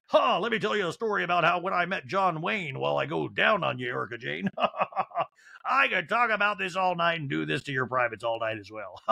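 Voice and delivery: put-on boastful storyteller with chuckles; Tom. Husband rambling during intimacy, hammed-up chuckling boast. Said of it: "I think Tom was like".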